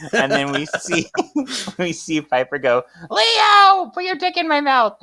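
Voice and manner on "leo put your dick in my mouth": very high, loud mock holler; calling out. Piper summoning her husband with a crude line, high hammed-up yell.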